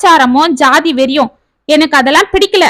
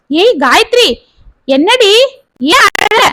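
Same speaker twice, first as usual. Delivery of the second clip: higher, anxious questions tumbling out; panicked at seeing her cry; mother rushes to the crying girl, alarmed; 5 semitones higher than usual. Acted. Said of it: "பதறிக்கொண்டு".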